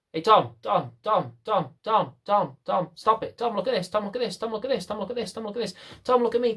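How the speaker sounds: pestering owner repeating the name. Acted. Pestering owner calling distracted dog.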